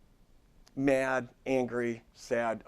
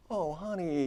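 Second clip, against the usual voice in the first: higher-pitched, caring sympathy, lightly acted; gentle compassion; 4 semitones higher than usual. Client talking to a sad best friend, gentle compassion. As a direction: soothe a hurting friend with tender care. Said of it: "all this compassion and care and gentleness".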